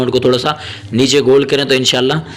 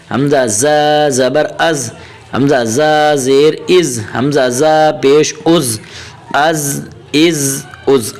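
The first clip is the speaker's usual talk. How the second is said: slow, measured Arabic letter drill; teacher reciting a Qaida drill slowly; Qaida drill recitation; much slower than usual. Shown as a demonstration. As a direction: chant the letters like a Quran teacher.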